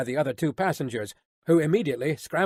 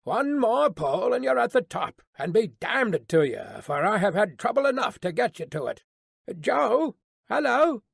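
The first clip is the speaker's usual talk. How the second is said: a raised, calling coachman voice; gruff coachman; 6 semitones higher than usual. A narrator's reading.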